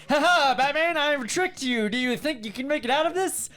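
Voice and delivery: high, taunting villain impression; Joker. Villain taunting Batman about a trap, high mock gloating. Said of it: "any really intense scene with Joker".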